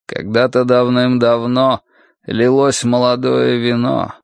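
slow, drawn-out verse reading; measured, mournful poem; melancholy song recited. Acted. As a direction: recite weary lyrics, lingering on the line ends. Reads out the song lyrics.

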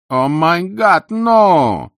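loud, high cry of horror; horrified outburst. A narrator's reading. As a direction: let the drawn-out exclamation burst out. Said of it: "вырвалось у Ники по-английски".

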